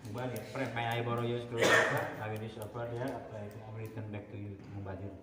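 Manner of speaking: put-on Indian accent. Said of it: "Anak buah saya lagi ngobrol sama orang India".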